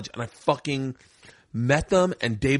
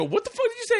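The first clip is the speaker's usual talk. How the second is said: very high indignant outburst; high-pitched mock fury; retold angry challenge; faster than usual. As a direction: act out an outraged comeback. Retold confrontation, second telling.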